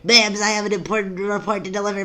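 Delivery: loud, high interrupting shout; high-pitched formal holler; yelling. Acted. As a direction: yell an urgent report, stretching the last word. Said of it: "Please forgive my yelling".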